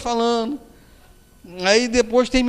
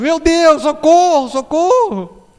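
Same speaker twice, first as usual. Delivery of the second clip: hammed-up panicked cries, higher and louder, slowing at the end; mock screaming for help; 6 semitones higher, 4 dB louder, slower than usual. Terrified passenger keeps crying out to Emmanuel, mock panicked yell. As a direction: wail like you're sure the plane is going down. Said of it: "Continuou gritando".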